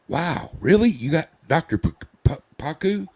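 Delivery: very high, loud mock astonishment; amazed. People hear who his doctor is, high amazed disbelief. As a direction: imitate someone awestruck, voice shooting up.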